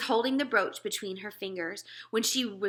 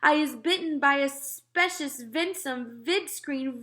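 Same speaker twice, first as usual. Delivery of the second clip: higher, louder slow panicked howl; panicked giant; 8 semitones higher, 6 dB louder, slower than usual. Acted. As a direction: cry out as if dying. Terrified giant cries out.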